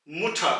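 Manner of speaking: मुठा ending on an open आ, with no R; silent final R. Shown as a demonstration. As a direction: drop the R and end मुठा on आ. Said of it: "almost pronounce ही नहीं करेंगे". (मुठा, अंत में आर बिल्कुल नहीं)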